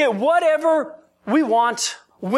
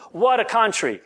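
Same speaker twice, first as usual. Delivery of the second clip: put-on comedian's catchphrase in a light Russian accent; lightly imitated Russian accent. Preacher quoting a Russian comedian's catchphrase, light Russian accent. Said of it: "that's my best Russian accent".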